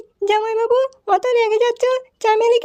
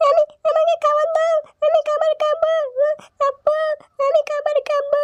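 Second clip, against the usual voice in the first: put-on whiny child voice; 4 semitones higher than usual. Child begging for food.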